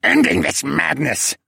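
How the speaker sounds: defiant yell. A narrator's reading. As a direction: yell it while struggling to get free. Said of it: "he yelled".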